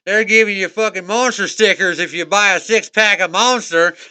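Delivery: put-on light Southern accent, pushed along eagerly. Trucker tells friend about free stickers, Southern accent. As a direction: pass on a tip in a mild Southern accent. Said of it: "Of course, it's Southern accent".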